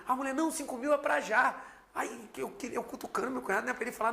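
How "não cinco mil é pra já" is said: higher and louder, jumping at the offer; a mother eager to pay right away; eager quick agreement. Retold or imitated. (mãe ansiosa aceita pagar na hora, animada)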